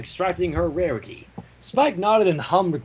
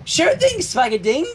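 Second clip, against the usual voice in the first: playful nickname; 11 semitones higher than usual. Acted. Teasing nickname for Spike.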